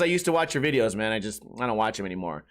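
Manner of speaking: low deadpan mutter; stone-faced. Retold or imitated. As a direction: say it flat, no expression. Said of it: "stone face goes".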